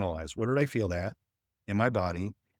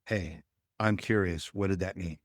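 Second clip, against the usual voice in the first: curious question; 3 semitones lower, 3 dB quieter than usual. Retold or imitated. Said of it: "I ask the question".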